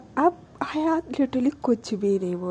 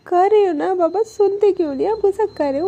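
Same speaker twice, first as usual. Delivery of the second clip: mildly coaxing, higher-pitched insistence; affectionate retort; 5 semitones higher, faster than usual. Retold or imitated. Anu lovingly tells Alisha she is angry, affectionate coaxing. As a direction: coax lovingly while gently insisting. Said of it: "वो बहुत प्यार से बोलती है।".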